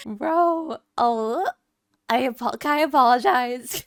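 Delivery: desperate to fix it; real loud panicked asking; frantic plea. Real, not acted. Panics over game choice.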